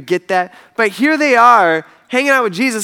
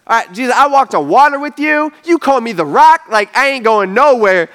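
insistent boast; 4 semitones higher, 5 dB louder than usual. Retold or imitated. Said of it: "here he is saying".

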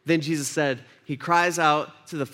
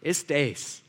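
dismissive Pilate; much slower than usual. Acted. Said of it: "And Pilate says".

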